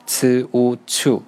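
呲乌翘 drawn out slowly, each sound separate; slow drill. Shown as a demonstration. Teacher repeats the syllable slowly for students to follow. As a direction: spell 呲乌翘 out slowly for learners. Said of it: "第四呢是".

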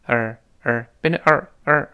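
"儿" as the reduced "our", just a curled-tongue er; repeated demo of weak "儿"; weak form. Shown as a demonstration. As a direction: reduce "our" to a short r-coloured "儿". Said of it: "our变成儿".

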